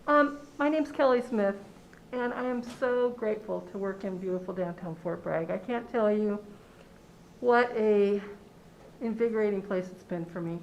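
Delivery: talking through a face mask; muffled behind a face mask. Real, not acted. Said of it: "I'm sorry I have my mask on".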